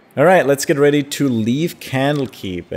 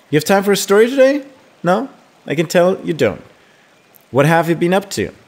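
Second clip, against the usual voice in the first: put-on higher, lively young friend voice; chatty childhood friend; 7 semitones higher, 6 dB louder than usual. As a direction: read it as a cheeky, gossiping friend, pitched up. Reads Imoen's game dialogue aloud.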